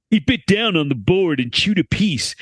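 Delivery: laid-back surfer dude reading. Shown as a demonstration. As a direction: read it like a chill surfer dude. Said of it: "I have to read this like a surfer dude".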